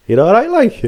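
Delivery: high, insincere you're all right; mock concern. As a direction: hold back a laugh and fake concern. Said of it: "getting himself together and going".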